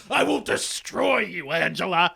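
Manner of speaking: drawn-out imitation of a menacing bully; mock villain threat. Matt as Angela heard him, mock menacing. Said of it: "what she heard in her head".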